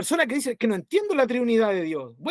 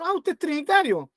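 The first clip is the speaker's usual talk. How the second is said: burla; 3 semitones higher than usual. Retold or imitated. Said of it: "Otros se burlan y dicen".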